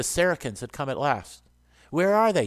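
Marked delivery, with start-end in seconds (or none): 1.9-2.5 raised, louder demand from the marshal. A narrator's reading. Marshal questions a dying soldier about the enemy, demanding. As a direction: demand it high and forceful. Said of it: "demanded the marshal".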